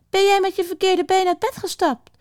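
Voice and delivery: high, sustained storybook witch; high-pitched disapproving question. A narrator's reading. Witch scolds the grumpy hedgehog, high witch voice.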